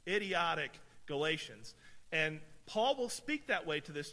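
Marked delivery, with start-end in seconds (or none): 0.1-1.7 stronger mock rebuke. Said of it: "If you wanna really".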